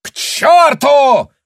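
slow, high, loud bellow; yell. A narrator's reading. Officer shouts after Tanya as she leaves, bellowing. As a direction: hurl it after her. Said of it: "крикнул ей вслед Гауптман".

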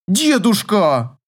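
mild mock outcry; cry of protest. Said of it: "вскрикнула она".

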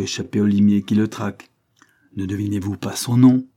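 exclaiming. Acted. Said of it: "s'écria l'avoué".

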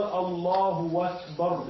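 "الله أكبر" drawn out as "Allahu wakbar"; very slowly, swap the glottal stop of "أكبر" for a w; long "الله" gliding into "wakbar"; hamza turned to waw. Shown as a demonstration. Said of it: "أبدل همزة الآه أكبر واوا".

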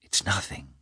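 soft, low, tender aside; tender reassurance. A narrator's reading. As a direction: soothe him softly and tenderly. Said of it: "peculiar tenderness and animation with which".

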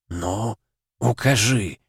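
sepulchral voice. Acted. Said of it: "ракочущий, что называется, замогильный голос".

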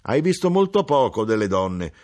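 mother declares it firmly; exclaimed. Acted. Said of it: "esclamò mia madre".

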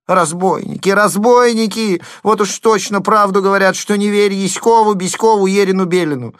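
high, loud outraged lament; outraged wailing. A narrator's reading. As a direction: wail about the thieves. Wailing over stolen oats.

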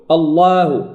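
wrong «الله» with dark L and thinned A; erro demonstrado. Shown as a demonstration. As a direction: let the long vowel of الله turn light and fronted. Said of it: "من الأخطاء أن نقول".

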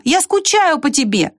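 high, slow, drawn-out call; crying out. A narrator's reading. Squirrel tells the departing ant she misses him, crying out. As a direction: call it out high, stretching the words. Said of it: "закричала она".

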